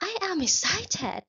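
high, very slow, bubbling with excitement; excited voice. Shown as a demonstration. Teacher acting out excitement for the class to copy, high and slow. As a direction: sound thrilled, drawing each word out.

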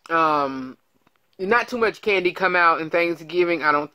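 muffled behind hand; speaking through fingers; hand over mouth. Real, not acted. Seen 1: Hand covers mouth from 0.3 to 3.8, then moves away.

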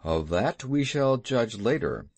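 understated, dry reserve. Acted. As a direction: put off judgment drily, without warmth. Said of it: "in a dry voice".

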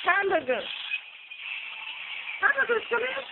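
mock calling a topping; playful calling out.

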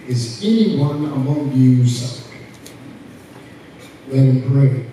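slow, measured reading with big pauses; scripture reading. Acted. Preacher reads scripture to the congregation, solemn proclamation. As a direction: proclaim each phrase deliberately to the room.

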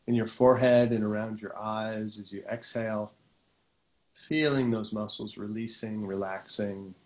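calm, unhurried meditation voice, often settling low; guided meditation. Real, not acted. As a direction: guide them gently into relaxation, pausing between phrases.

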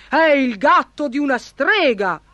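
sly baron calling out; crafty cry. A narrator's reading. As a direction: announce it with cunning triumph. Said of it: "gridò furbissimo il barone".

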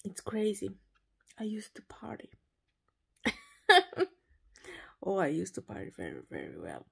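tired whisper from bed at night. Real, not acted. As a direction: whisper it, almost no voice, already in bed. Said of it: "I don't know why I'm whis-, whispering".

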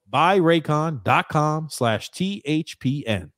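careful ad-read delivery; slow promo read. Acted. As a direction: read the web address slowly. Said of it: "third repeat of promo code".

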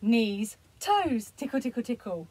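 playful demo. Shown as a demonstration. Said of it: "build that up to tickling and doing".

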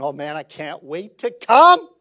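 a loud, eager rising exclaim; eager churchgoer. Pretend. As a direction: sound thrilled to come to church. Mock eager churchgoer driving in.

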